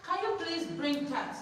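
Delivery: slow, gentle Can you please bring that; polite request demo. Shown as a demonstration. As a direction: model a slow, kind request. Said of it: "use that word".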